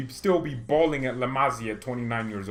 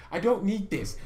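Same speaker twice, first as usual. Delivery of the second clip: laughing; 6 semitones higher than usual. Real, not acted. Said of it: "I'm so irritated today".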